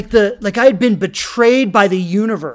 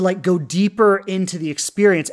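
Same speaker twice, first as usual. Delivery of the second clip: ordinary talk, nothing marked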